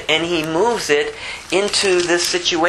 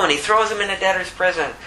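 ordinary delivery

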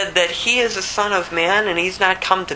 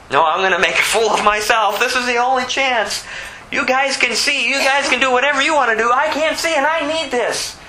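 high, determined plea; crying out all the more; 5 semitones higher than usual. Acted. Beggar pushing past the crowd, calling out high. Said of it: "He cried out all the more".

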